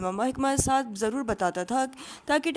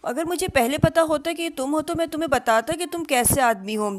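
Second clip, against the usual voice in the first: startled; 5 semitones higher than usual. A narrator's reading. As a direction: caught out, half laughing. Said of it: "चौंकते और हंसते हुए कहा".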